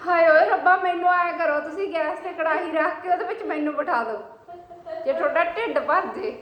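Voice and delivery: loud laughing outrage; hammed-up exasperated rant; dramatic loud aunty. Real, not acted. Mock outrage at the son.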